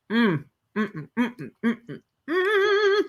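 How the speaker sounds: happy hums breaking into laughter; savoring laugh. Real, not acted. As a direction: hum with delight, then laugh.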